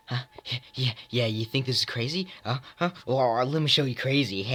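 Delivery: lightly acted crazy challenge; jittery movie impression with a laugh at the end; crazy movie character. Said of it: "stop with the impressions".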